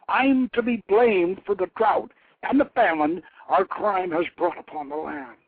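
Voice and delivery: angry goddess. Acted. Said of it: "The goddess's anger boiled up".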